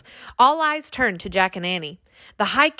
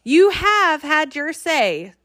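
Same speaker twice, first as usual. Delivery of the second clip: slow, high, louder royal shout; king shouting back; 7 semitones higher, 4 dB louder, slower than usual. A narrator's reading. Fairy king ending the children's plea, shouting. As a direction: cut the talking short. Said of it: "the High King shouted back".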